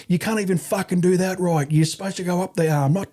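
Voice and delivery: high-pitched scathing dressing-down; mock furious scolding at held-back volume; retold anger. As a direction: imitate berating a recruit. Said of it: "I was really angry".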